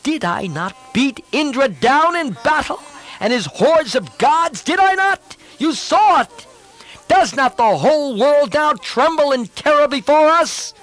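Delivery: proud son bristling with contempt; hot-headed prince bursting out in scorn; impatient outburst. Acted. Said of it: "lost patience and burst out".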